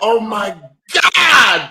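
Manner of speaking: slow, drawn-out amazement; slow admiring awe; amazed. Real, not acted. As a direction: savor the compliment slowly. Amazed by her age.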